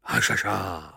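sleepy, friendly islander; smiling islander. Acted. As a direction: answer with a contented smile. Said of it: "usmál se".

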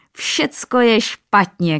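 a gleeful king crying out; hearty king's shout in a slow, laughing bellow. A narrator's reading. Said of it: "křičel".

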